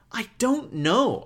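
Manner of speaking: slow, drowsy drawl; slow and tired. Pretend. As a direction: drag it out sleepily. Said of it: "Why do you sound so slow and tired".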